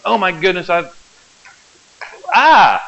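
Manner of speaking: hammed-up panic over the charts, bursting into a short cry; mock freaking out. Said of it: "they start freaking out".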